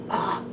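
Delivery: soft, breathy choked "ah". Shown as a demonstration. Reader reacting to an upsetting card, choked up. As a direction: let out a quiet, voiceless catch of the throat. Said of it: "now I'm getting choked up".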